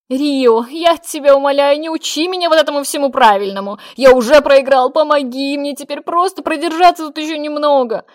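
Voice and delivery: loud, high, desperate begging; pleading. A narrator's reading. Lir begging the mage for help, pleading loud and high. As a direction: beg him as if already lost. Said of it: "взмолился Лир".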